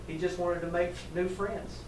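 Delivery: soft, understated, musing reply; gentle wisdom. A narrator's reading. Wise old beetle explains to the animals, gently. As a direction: offer the thought quietly.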